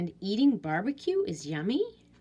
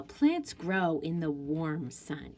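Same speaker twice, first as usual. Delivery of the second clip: slow read-aloud; 3 semitones lower than usual. Shown as a demonstration. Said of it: "revise and add a detail".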